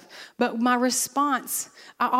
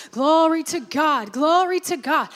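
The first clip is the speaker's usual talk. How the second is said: rising, louder praise warming up; getting happy; 4 semitones higher, 4 dB louder than usual. Acted. Preacher acting a reluctant man forcing himself into praise. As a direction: push yourself into praising. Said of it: "but I'm gonna get happy about it".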